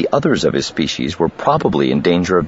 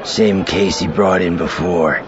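slow, measured report on the same case; steady statement with a falling end; aide reporting. A narrator's reading. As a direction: deliver it as a confirmed fact to the boss. Aide reports to boss, who echoes it.

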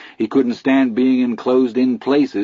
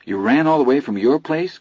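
incredulous, higher; unbelieving; 6 semitones higher than usual. Acted. Chris amazed Vern ran two miles. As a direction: ask in disbelief. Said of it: "Chris asked unbelievingly".

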